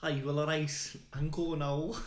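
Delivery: poem line in put-on Scouse; Scouse accent. Friend tries a Scouser poem, mock Scouse accent. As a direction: recite with an attempted Scouse accent.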